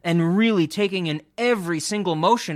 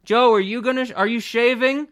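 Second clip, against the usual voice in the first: nagging wife voice; 6 semitones higher, 3 dB louder than usual. Retold or imitated. Acting out elderly couple morning.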